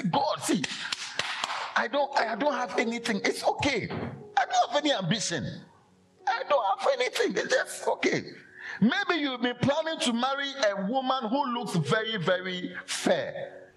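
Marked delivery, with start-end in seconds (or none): 0.0-8.2 mock humble prayer.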